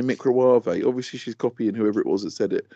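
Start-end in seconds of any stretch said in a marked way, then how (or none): 0.0-0.7 "microwave" as mic-ro-wah-vay; purposely said wrong. Retold or imitated. Imitating a girl on Instagram, "microwave" as mic-ro-wah-vay. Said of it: "purposely saying things wrong".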